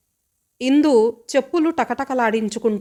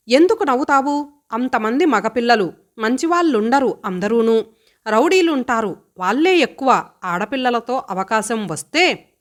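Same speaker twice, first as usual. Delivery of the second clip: a touch of raised angry voice; mild shout. Acted. Brother scolding sister for laughing, mild shout. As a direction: scold her, only half raised. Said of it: "అరిచాడు".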